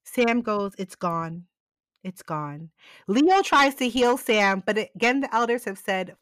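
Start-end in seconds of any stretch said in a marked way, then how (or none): 0.8-1.5 soft, low, fading breath of a dying man; dying murmur. Retold or imitated. Dying Sam speaks weakly. 2.0-2.7 even softer, lower, almost gone; dying murmur. Retold or imitated. Dying Sam repeats, weaker.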